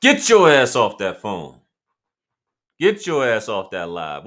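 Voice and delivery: mock parent scolding a kid on the phone; nagging parent. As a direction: bark it like a mom yelling down the hall. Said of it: "That's like being at your parents' house".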